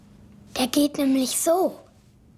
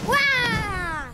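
monster roar; 5 semitones higher than usual. Shown as a demonstration. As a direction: belt out a big scary Wah. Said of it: "Und gleich nochmal".

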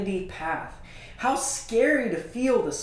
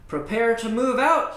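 shouted command; 4 semitones higher, 5 dB louder than usual. Acted. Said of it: "he shouted into the wind".

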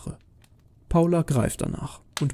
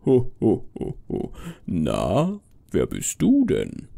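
low, drawn-out Santa voice; ho-ho-ho, then a slow curious question; jolly Santa Claus; 3 semitones lower, slower than usual. Acted. Santa meeting a grim little girl, jolly and low.

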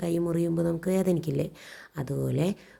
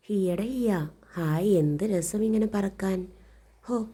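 joyful kite; 4 semitones higher, slower than usual. Acted. Kite character's joyful cry.

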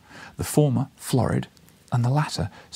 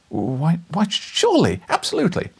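cried out; 9 semitones higher, 5 dB louder than usual. A narrator's reading. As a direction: pitch soaring higher, louder, triumphant. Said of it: "I cried and gloried".

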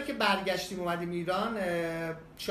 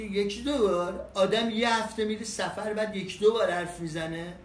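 mock disbelief; 3 semitones higher, 4 dB louder than usual. Attendant's incredulous retort.

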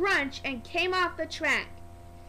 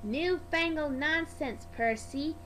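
grand. Acted. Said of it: "puffed Edward as grandly as he could".

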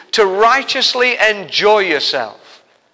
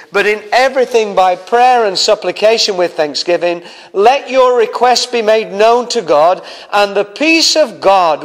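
scripture reading. Acted. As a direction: proclaim the verse to the congregation. Reads scripture aloud.

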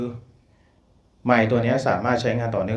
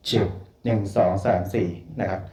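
over a PA system; 3 semitones lower than usual. Shown as a demonstration. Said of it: "นี่คือเสียงที่ออกจากไมค์ที่ผมพูดอยู่".

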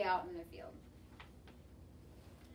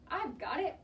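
raised-pitch call of a fielder; 5 semitones higher than usual. A narrator's reading. Pitcher claiming the ball, calling out. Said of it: "called the pitcher".

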